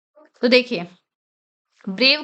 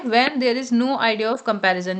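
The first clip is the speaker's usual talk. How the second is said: slow, careful reading of the rule; teacher reading out a grammar rule; rule read aloud; much slower than usual. Acted. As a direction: read the textbook line slowly. Reads rule text slowly.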